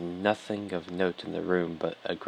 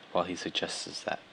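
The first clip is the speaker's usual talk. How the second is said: whispering; 6 dB quieter than usual. Real, not acted. Repeating phrase, trailing off.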